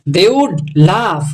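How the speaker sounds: very slow English read. Shown as a demonstration. Teacher reading the English sentence slowly. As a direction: draw the words out for the class. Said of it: "teacher reads English line".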